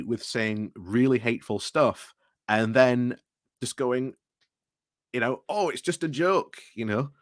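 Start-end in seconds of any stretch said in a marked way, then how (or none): 5.5-6.6 a terrible mock Scottish accent; bad Scottish accent. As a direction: lightly imitate a Scottish accent, badly. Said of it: "my terrible attempt at the Scottish accent".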